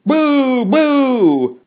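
loud, high, drawn-out boos; crowd booing. A narrator's reading. Mob answers the pumpkin head insult, loud high booing. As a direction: boo like an outraged mob.

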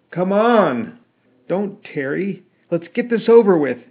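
loud, high furious shout; angry shout. A narrator's reading. Kelly angrily shouting to get the flogging over. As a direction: yell it, impatient and furious. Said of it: "shouted Kelly angrily".

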